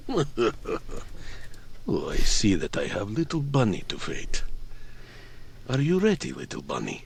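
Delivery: big brute taunting the little bunny; lightly voiced mocking giant. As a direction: sneer at the tiny opponent.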